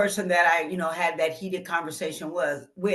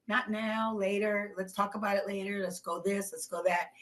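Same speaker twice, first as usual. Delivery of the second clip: nice way; 7 dB quieter than usual. Retold or imitated. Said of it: "nice way".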